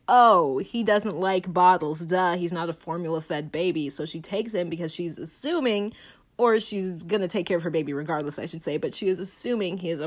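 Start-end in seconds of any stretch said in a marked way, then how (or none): 0.1-3.9 condescending mother. Retold or imitated. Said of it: "And so Mother is like".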